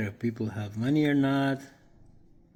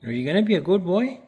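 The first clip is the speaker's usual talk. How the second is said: higher, louder, quick sing-song to a pet; 8 semitones higher, 7 dB louder, faster than usual. Real, not acted. Cooing at pet Peter.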